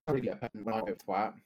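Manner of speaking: garbled, sped-up bad connection; bitcrushed voice cutting out. Real, not acted. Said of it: "your internet cut out".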